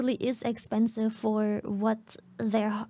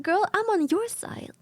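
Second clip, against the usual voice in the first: sassy, laughing; 8 semitones higher than usual. Retold or imitated. Repeats quote, higher, laughing.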